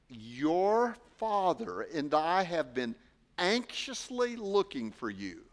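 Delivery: Your father and I said slowly, weight on your; slow deliberate reading. Shown as a demonstration. Pastor reading the handout verse slowly to the congregation. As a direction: read it slow, leaning on Your. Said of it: "this is on your handout".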